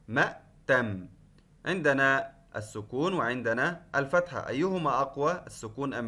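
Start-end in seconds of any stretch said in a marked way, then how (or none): 0.1-1.1 مأتم said slowly, the hamza held; slow spelled-out word. Shown as a demonstration. Teacher sounding out the last word, slow and clear. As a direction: draw out مأتم so pupils hear each sound. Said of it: "كلمة مأتم".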